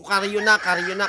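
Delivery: half-shouted retelling of a yell; retold shout. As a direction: call it out as if shouting at the referee. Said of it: "Sumisigaw na ako".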